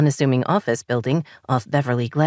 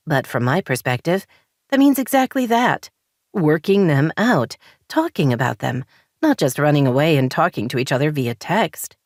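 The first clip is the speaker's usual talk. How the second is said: exasperated; 2 semitones higher than usual. Acted. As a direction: push back hard, fed up. Daisy argues back.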